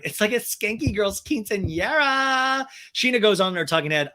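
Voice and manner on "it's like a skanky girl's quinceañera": high, slow catty put-on voice; mock Stassi sneer. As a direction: sneer it like a mean girl. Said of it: "Stassi is laughing, going".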